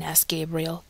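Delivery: plain reading voice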